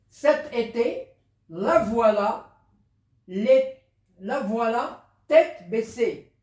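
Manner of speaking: slow, deliberate classroom reading, phrase by phrase; reading text aloud. Acted. Teacher reading a short text to pupils, slow read-aloud.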